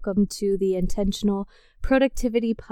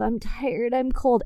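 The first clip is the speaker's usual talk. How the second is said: mild whiny voice; 3 semitones higher than usual. Retold or imitated. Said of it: "in a whiny six-year-old girl voice".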